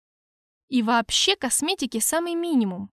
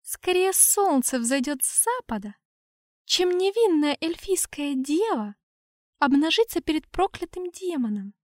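haughty elf maiden; 4 semitones higher than usual. Acted.

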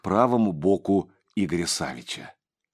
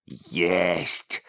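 hissed; 3 semitones lower, 3 dB quieter than usual. A narrator's reading. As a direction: hiss the word "Есть" out. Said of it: "прошипела ящерица".

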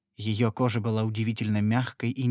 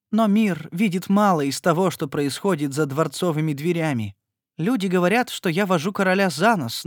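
higher, anguished avowal; tearful confession; 6 semitones higher, 3 dB louder than usual. A narrator's reading. Royal mistress confessing to Etienne: tearful anguish. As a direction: confess through tears.

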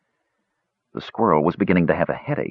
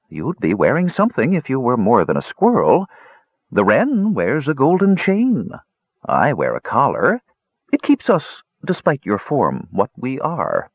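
put-on sly old cat voice; 4 semitones higher than usual. Cat Piter explains himself.

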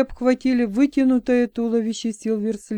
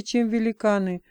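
plain reading voice

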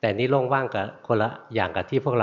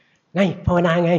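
high, loud and slow, pointing a finger at the visitor; stern old monk challenge; 9 semitones higher, 6 dB louder, much slower than usual. Retold or imitated. Sick old monk challenging the young visitor, loud high bark. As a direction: bark the challenge out like a fierce master. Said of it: "ชี้หน้าเลย".

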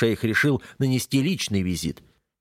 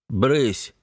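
threatening; 3 semitones higher than usual. Acted. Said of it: "угрожающе бросаю".

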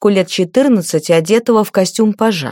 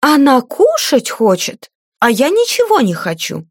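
mocking mimicry; 6 semitones higher than usual. A narrator's reading. Lady mocks her page's plea about the horse, mocking mimicry. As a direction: parrot the boy's whining кушать.

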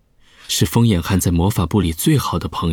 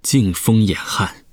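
slow, grave toast; solemn chorus; slower than usual. Acted. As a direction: toast together, slowly. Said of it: "大家齐声说道".

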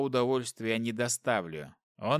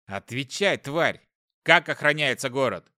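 angry demand; 5 dB louder than usual. Acted. Hero kicks and interrogates demon.

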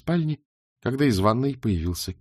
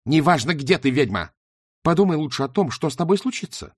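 menacing threat; 6 semitones higher, 4 dB louder than usual. Acted. Shayana threatening Beryl.

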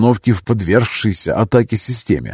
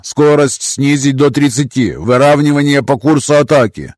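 commander's order; 4 semitones higher, 3 dB louder than usual. Acted. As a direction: give the order steadily. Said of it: "скомандовал командир крейсера".

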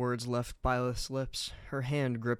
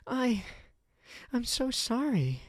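tearful apology; 12 semitones higher than usual. Acted. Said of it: "as she wept into his jacket".

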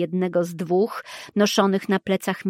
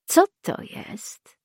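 emotionless; 10 semitones higher, slower than usual. A narrator's reading. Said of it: "ciągnął beznamiętnie morderca".

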